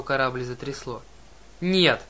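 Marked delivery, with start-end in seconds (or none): 1.6-2.0 loud, higher cry of horror; narrated girl's scream, raised in pitch; piercing cry. A narrator's reading. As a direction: cry out no, sudden and sharp. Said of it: "пронзительно вскрикнула девушка".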